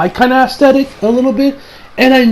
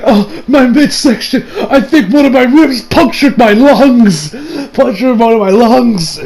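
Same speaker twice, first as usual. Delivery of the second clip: fake groaning victim; 4 semitones higher than usual. Kira fakes injuries to Josuke.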